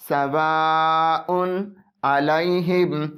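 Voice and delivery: सवाउन अलैहिम slow, the तनवीन न said clearly; drawn-out सवाउन अलैहिम with a plain नून; सवाउन अलैहिम, no hidden nasal; clear izhar. Shown as a demonstration. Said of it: "ज़ाहिरी तौर पर पढ़ेंगे".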